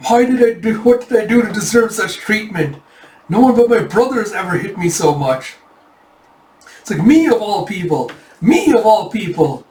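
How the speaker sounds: high, melodramatic self-pity; aggrieved lament. Retold or imitated. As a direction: wail over unfair treatment, hammed up. Smacked man laments his treatment.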